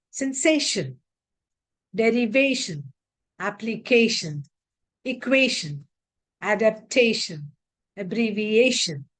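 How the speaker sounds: sensation, derivation, abbreviation, each stressed on the syllable just before -tion. Shown as a demonstration. Teacher drilling -tion words, stress on the syllable before -tion. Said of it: "On the syllable which occurs before T I O N".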